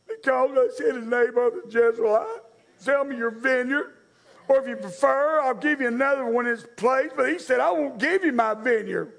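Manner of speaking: put-on lightly whiny, babyish king. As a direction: whine it like a sulking toddler. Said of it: "his little baby whiny butt voice".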